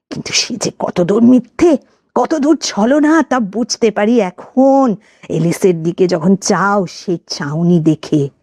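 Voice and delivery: a lightly voiced jealous ghost, working herself up; jealous ghost rising.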